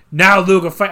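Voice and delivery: put-on a faltering first stab at a Boston accent; loud botched Boston accent attempt; bad Boston accent. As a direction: fumble a Boston accent for a Taskmaster quote. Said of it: "I can't do a Boston accent".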